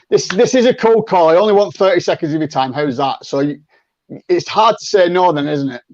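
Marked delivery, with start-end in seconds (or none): 0.1-3.2 honest cold call opener. Shown as a demonstration. Coach showing the better cold call opener, brisk and upfront. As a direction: own up it's a cold call and move fast. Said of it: "But if I say".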